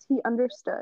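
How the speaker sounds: plain reading voice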